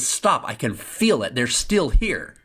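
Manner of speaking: high, firm urgent order; urgent insistence. Retold or imitated. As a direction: insist the van halt now. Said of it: "I said".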